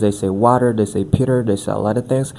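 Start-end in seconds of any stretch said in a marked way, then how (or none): 0.3-0.7 "water" with the T softened into a quick D; flap T. Shown as a demonstration. Coach showing the rule learners apply, flap T in "water". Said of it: "whenever T is in between two vowel sounds". 1.0-1.4 "Peter" with the T turned into a D; flap T. Shown as a demonstration. Coach quoting learners who use the rule, flap T in "Peter". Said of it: "we can transform it into a D".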